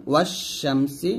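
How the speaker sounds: ওয়াশ শামসি slowly, wa running straight into a long sh; silent lam. Shown as a demonstration. Teacher demonstrating a sun letter, lam silent in ওয়াশ শামসি. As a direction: hold the doubled sh in ওয়াশ শামসি, no l. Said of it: "লামের উচ্চারণ করা যাবে না".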